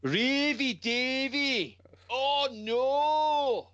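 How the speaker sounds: high, slow, drawn-out mocking cry; mocking whine. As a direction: whine it like a wounded heel. Mocking a wrestler on screen.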